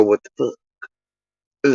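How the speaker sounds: slow, drawn-out, low-voiced baffled "What the fuck?"; baffled local reaction. Locals reacting to a strange word, drawn-out and baffled. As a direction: stretch it out like a puzzled local. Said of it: "look at each other sideways and go".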